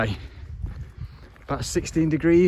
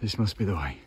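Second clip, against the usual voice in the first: heavy breathing; 5 semitones lower, 6 dB quieter, faster than usual. Real, not acted. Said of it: "Sorry for the heavy breathing".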